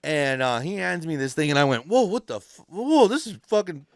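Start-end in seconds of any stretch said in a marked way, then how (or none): 1.9-3.9 high, amazed whoa at the heavy burrito; surprised whoa. Retold or imitated. Ex-inmate retelling being handed a huge burrito, amazed. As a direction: gasp at how heavy it is.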